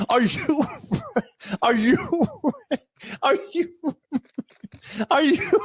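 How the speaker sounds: trying to get the line out through laughter; cracking up mid-line. Real, not acted. Comic fails to finish Stephanie's line, cracking up. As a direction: break off repeatedly as real giggles take over.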